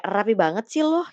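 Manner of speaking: catty, rising at the end on "lo"; snide remark. Shown as a demonstration. Someone commenting on a neat outfit, snidely. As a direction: lightly needle someone over their outfit. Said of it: "kayak ngejulit".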